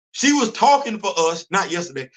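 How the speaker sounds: us and yesterday set apart; correcting himself. Shown as a demonstration. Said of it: "See how I did that?".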